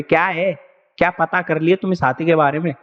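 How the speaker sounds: half-shouted anger in front of everyone; mock shouting. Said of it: "बोला सबके सामने चिल्लाते हुए". (सबके सामने हल्का सा नकली चिल्लाना)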